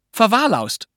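put-on high girl's voice; little girl. A narrator's reading. Pünktchen repeats her made-up word, in a high voice.

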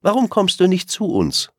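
hell gesprochene Rehkinderstimme; junges Reh. Acted. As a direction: neugierig rufendes Rehkind. Rehkind ruft Blauauge. (junges Reh ruft neugierig)

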